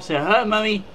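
lightly voiced pet talk, starting high; playful, lightly put-on cat's voice; speaking for Bob the cat. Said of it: "Say hello, Bob".

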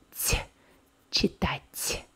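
Т alone as a soft, palatalised sound, then читать; читать with a soft released T at the end; soft T demonstration. Shown as a demonstration. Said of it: "Do you hear the soft sound?".

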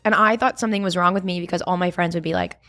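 fast talk around an ice cube; ice in mouth. Real, not acted. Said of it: "I have an ice cube in my mouth".

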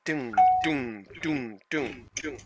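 soft, slow repeated thuds; imitated throbbing. Shown as a demonstration. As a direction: sound out a dull pulse of pain, quietly.

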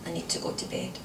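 soft, subdued voice; withdrawn husband. A narrator's reading. Husband evading wife's questions, low and withdrawn. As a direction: murmur it as if drained.

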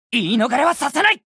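high, fierce accusing shout; determined combat yell; battle shout. Acted. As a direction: pin the culprit with your voice. Battle attack cry.

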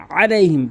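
আলাইহিম spoken quickly, throat pressed at the start; weighted ayn. Shown as a demonstration. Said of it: "ভর দিয়ে বলতে হবে". (আলাইহিম-এর শুরুতে আইনে ভর)

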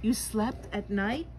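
shocked slow question; gasping in surprise. Acted. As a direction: gasp it out. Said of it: "gasped another".

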